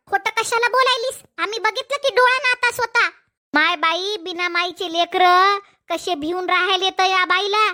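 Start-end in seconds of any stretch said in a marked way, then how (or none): 3.5-7.6 put-on an elder lamenting the poor children; scolding old aunt. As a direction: lower voice of an old aunt, disapproving.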